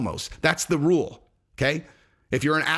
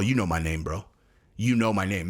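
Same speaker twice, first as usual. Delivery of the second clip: much lower, insistent bro voice; low mock insistence; 8 semitones lower than usual. Comic mocking a fighter demanding his name, low insistent. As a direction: press him like a touchy bro.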